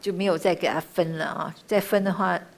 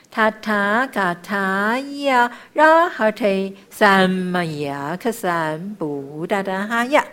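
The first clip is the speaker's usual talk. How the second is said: slow, drawn-out sacred syllables; measured chanting, easing off at the end; mantra recitation; much slower than usual. Shown as a demonstration. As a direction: chant it with long held vowels.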